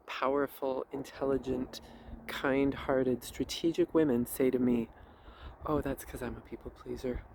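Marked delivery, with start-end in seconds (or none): 5.7-7.2 softly apologetic, a little embarrassed. Retold or imitated. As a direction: say it as if excusing yourself. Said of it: "in an apologetic way".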